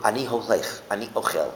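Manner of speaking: "holech" and "ochel" carry the point, "ani" light; stress on the verb. Shown as a demonstration. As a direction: lean on the verb after "ani". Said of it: "the emphasis on what you're doing".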